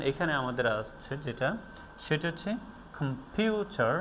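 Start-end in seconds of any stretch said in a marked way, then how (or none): 3.0-3.9 "কম্পিউটার" with weak "কম", strong "পিউ", weak "টার"; stress on middle syllable. Shown as a demonstration. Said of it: "ভিউ এটাকে strong". ("কম্পিউটার"-এ "পিউ" জোরে, বাকিটা হালকা)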